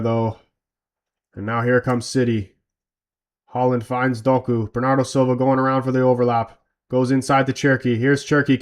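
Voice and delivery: live match commentary voice; play-by-play commentary. Acted. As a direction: call it like a TV commentator.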